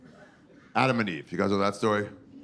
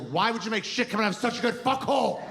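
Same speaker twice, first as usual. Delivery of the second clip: mock angry Adam; 11 semitones higher than usual. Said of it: "it made Adam so angry".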